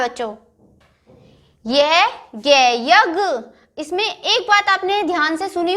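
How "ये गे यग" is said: गे जे then गज, each syllable drawn out slowly; slow syllable reading. Shown as a demonstration. Teacher reading गज तक चल syllable by syllable. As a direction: blend letters into words very slowly. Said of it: "ध्यान दो, मैं क्या पढ़ रही हूँ".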